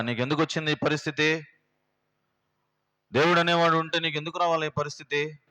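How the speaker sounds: preacher acting Job's wife reproaching him, rising anger; Job's wife scolding. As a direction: voice the bitter wife railing at her husband. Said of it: "దేవుణ్ణి తిడుతుంది ఆయమ".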